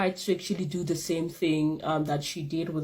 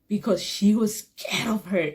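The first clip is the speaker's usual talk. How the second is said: whispered aside; 3 semitones higher than usual. Real, not acted.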